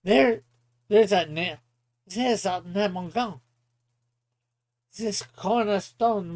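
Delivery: hero's declaration, lightly voiced; deliberate, emphatic hero voice, slowing mid-speech; Flame. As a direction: declare it firmly as the righteous hero.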